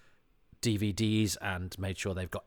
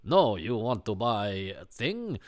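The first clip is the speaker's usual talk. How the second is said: slow foreign scam caller; a dodgy cold caller on the phone; slower than usual. Pretend. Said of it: "it would be somebody like".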